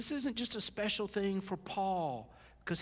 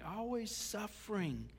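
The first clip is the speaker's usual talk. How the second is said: "always suffering" said softer and slowly, weighing each word; quiet, slow; 3 semitones higher, 5 dB quieter than usual. Shown as a demonstration.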